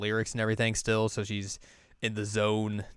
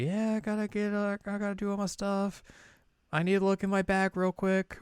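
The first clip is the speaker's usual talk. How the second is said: flustered character; 11 semitones higher than usual. Retold or imitated. Chisato flustered, excusing herself in story.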